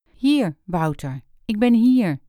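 relieved call, rising up loud at the end; answering his call with relief. Acted. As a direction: call back, glad to be found. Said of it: "zei ze opgelucht".

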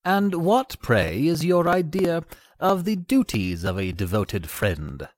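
high bird voice, dropping at the end; inquiring little linnet. Acted. Linnet overhearing the rat, asking in a high voice. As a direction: ask in a high little bird's voice.

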